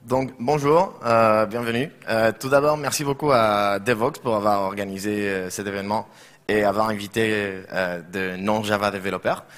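halting French with a Catalan accent; hesitant French with a Spanish accent; broken french. Real, not acted. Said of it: "je parle un peu français".

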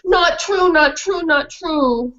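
high yappy denial; indignant dog; protesting dog. Acted. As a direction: bark back in protest.

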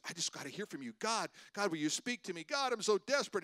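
hammed-up pleading, pitch jumping on each cry to God; desperate plea. A believer begging God to speak, acted desperation. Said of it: "and you're crying".

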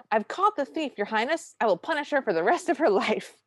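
high, hammed-up villainous declaration; accusing stepmother. Stepmother presenting a thief to the king, mock-indignant. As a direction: pompously denounce the thief, half laughing by the end. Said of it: "immediately switches gear and goes".

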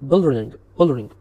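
blurring, blurring stretched out slowly, each syllable clear; slow careful repeat. Shown as a demonstration. Lecturer to students, repeating blurring slowly so they catch it. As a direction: spell out blurring, blurring slowly for the class. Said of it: "بل".

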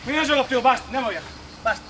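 loud, fed-up quitting; frustrated outburst. Real, not acted. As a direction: slam down the game and quit. Sconfitta al gioco, abbandona. (sfogo frustrato ad alta voce)

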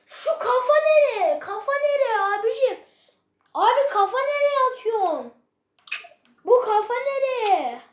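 exasperated yelling. Real, not acted. Fuming at a wasted header.

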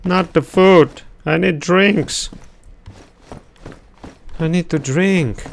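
high, whining for a drink; high whiny plea. Acted. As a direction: whine like a parched child. Thirsty character begging.

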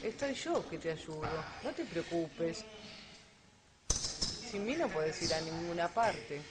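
soft, slow, coaxing little inner voice; whisper-like reassurance from a parasite in your head. Retold or imitated. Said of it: "la vocecita le dice".

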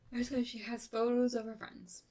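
yawning through the words. Real, not acted. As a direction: talk mid-yawn. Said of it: "Pardon me for yawning".

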